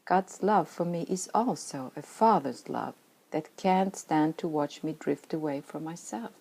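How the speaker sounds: plain reading voice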